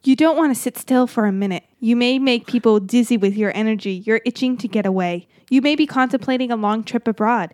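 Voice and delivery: measured horoscope reading voice; lightly performed horoscope read; reading a horoscope aloud. Acted. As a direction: read the forecast like a columnist. Reads out horoscope.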